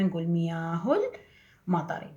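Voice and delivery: مياه المطر linked with no stop, miyahu-lmatari; linked wasl reading; joined reading. Shown as a demonstration. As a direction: run مياه into المطر without a break. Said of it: "لازم نوصل الكلمة".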